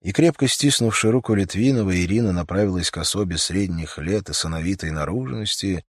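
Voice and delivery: ordinary delivery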